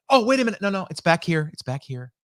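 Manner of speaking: comic bit of finding the phone in a back pocket; mock panic then relief. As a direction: start alarmed, then settle down as you find it.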